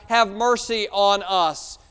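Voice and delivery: a slow, fairly loud plea; crying out. Acted. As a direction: call for mercy. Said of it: "they cried out".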